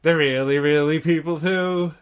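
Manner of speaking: a lifted, put-on host voice; Bob McAllister. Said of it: "I think he sounds like that".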